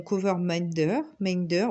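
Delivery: English title in a thick French accent; real French-northern accent on English words; French-Ch'ti accented English. Real, not acted. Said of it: "un mélange d'accent français et ch'ti".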